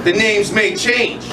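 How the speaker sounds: rhythmic spoken word performance; spoken word delivery with building intensity; slam poetry recital. Acted. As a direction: perform it like a slam poem on stage.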